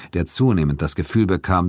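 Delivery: usual speaking voice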